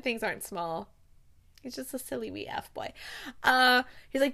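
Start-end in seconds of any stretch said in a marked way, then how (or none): 1.6-2.9 much softer echo of a quote; savoured quiet repeat. Retold or imitated. Podcaster savouring a Scottish phrase, murmured quietly.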